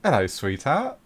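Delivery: flirty wench purr; sultry barmaid. Acted. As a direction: coo it like a barmaid. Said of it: "she sits on your lap".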